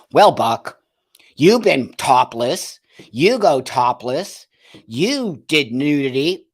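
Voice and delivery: loud, slowed, mocking accuser voice; mocking activists. Buck mocking activists scolding him about going topless. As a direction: mimic the scolding critics, drawn out and loud. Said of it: "people will go like this to me".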